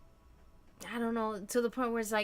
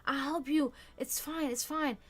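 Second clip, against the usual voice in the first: calm reassuring partner; 3 semitones higher, 5 dB quieter than usual. Retold or imitated. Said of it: "if my partner can just be cool and say".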